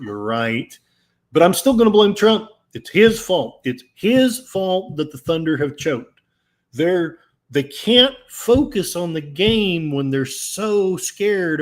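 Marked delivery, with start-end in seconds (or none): 1.3-10.1 louder, fast, sarcastic outburst; hammed-up blaming of Trump; mock indignant blame. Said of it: "are said in sarcasm".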